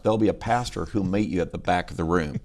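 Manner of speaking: email voiced in a Carolina accent; North Carolina accent. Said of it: "you can do North Carolina".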